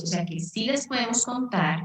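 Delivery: ordinary talk, nothing marked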